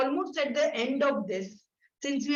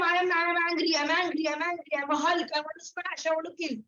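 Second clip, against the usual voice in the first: mock angry; 4 semitones higher, faster than usual. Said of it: "You are only telling them".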